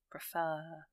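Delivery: "Preferred" said alone, weight on its second syllable; stress on second syllable. Shown as a demonstration. Teacher isolating the example word for learners, second syllable of "Preferred" stressed. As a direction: stretch the last syllable of "Preferred". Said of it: "the stress is on the R section".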